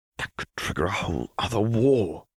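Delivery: spoken as a hiss. Caitlin answers Lux, who insists on helping; hissing. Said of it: "Caitlin hissed".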